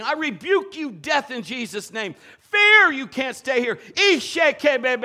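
high, loud commanding prayer; shouted rebuke. Retold or imitated. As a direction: rebuke fear at the top of your voice. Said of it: "she's down there saying".

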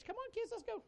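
put-on high, mother-hen voice herding kids; wife gathering kids. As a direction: shoo the children out like a mother hen. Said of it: "a hen and chicks".

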